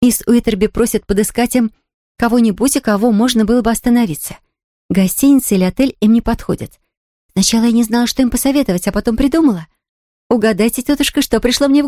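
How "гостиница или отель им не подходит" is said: ordinary delivery, nothing marked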